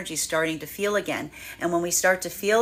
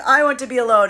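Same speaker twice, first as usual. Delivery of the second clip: mock dramatic vow; 5 semitones higher, 6 dB louder, faster than usual. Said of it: "they're going".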